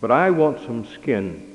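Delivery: a hint of a small child asking, leaning on I; quick little plea, barely voiced as a child; the child answers the parents with a small plea; lightly voiced child's plea. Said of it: "the child quickly responded".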